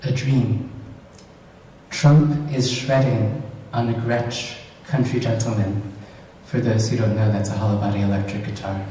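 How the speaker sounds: deliberate, lightly performed poetry reading; measured recital with dry pauses; poem reading. Acted. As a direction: read your poem to a live audience, line by line. Reads own short poem aloud.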